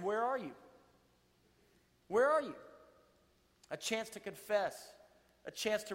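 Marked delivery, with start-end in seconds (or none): 2.1-2.6 a louder call, pitched higher. A narrator's reading. God calls again to the hiding man, louder. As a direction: call out to find him. But the Lord God called.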